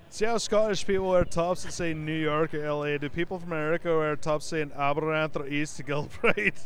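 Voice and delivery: put-on light Scottish accent, wry question; hint of a Scottish accent. Host reads a last tweet to cohosts in a light Scottish accent. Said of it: "read some Scottish tweets in my best Scottish accent".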